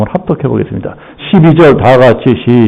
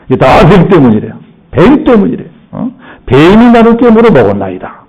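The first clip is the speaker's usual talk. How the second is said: Eve blaming; 4 semitones higher than usual. Acted. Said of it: "하와가 뭐라고 합니까".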